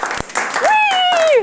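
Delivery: high, squealed "wheee"; gleeful mock squeal on a ride; rollercoaster whee.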